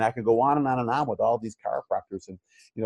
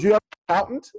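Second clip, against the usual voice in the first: mentor's voice; 10 semitones higher, 5 dB louder, much faster than usual. Retold or imitated. Mentor voice, retold call.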